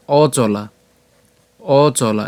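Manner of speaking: "অচলা" as o-cho-laa, initial vowel sounded; opening o vowel. Shown as a demonstration. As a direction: give the first vowel of "অচলা" its own beat. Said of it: "অর্থাৎ অ আসবে". ("অচলা" শুরুতে স্পষ্ট অ)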